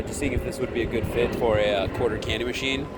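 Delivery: casual and smooth, not hyped up; smooth pitch. Acted. Candy machine seller casually pitching a shop owner, smooth. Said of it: "in a just very smooth tonality".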